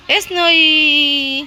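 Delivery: very slow, high, loud name call; slow high call for a dog; drawn-out call. Real, not acted. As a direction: stretch out her name lovingly. Calling dog Snowy.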